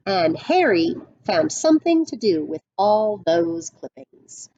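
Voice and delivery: put-on storyteller reading a picture book to kids; read-aloud storybook voice; story narration. A narrator's reading. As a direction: paint the western showdown for the class.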